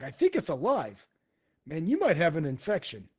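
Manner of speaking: animated mock concern; boisterous gawker. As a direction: gawk at it like a blunt buddy. Kung Po gawks at the creature.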